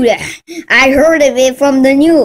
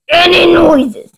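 angry shout; 3 semitones higher than usual. Acted. Angry at the noise.

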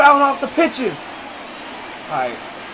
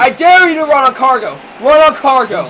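taunting shout. Real, not acted. Gamer daring runner against Cargo, taunting shout. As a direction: goad the runner to go.

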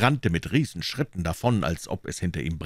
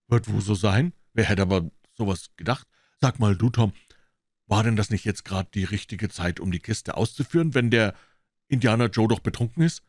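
put-on slightly louder boy voice; boyish Huck; 3 semitones higher, 3 dB louder than usual. Huck suggesting they fetch the box, cautious voice.

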